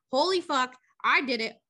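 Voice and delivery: lively acted excitement; mock elation. Retelling a boy finding he is back, excited. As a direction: play his delighted relief lightly.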